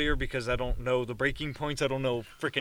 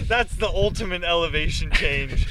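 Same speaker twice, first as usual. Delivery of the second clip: laughing; 4 dB louder than usual. Real, not acted. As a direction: laugh through the punchline. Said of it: "laughing at own joke".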